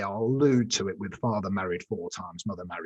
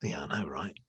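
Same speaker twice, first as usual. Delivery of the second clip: knowing whisper. Retold or imitated. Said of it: "I went".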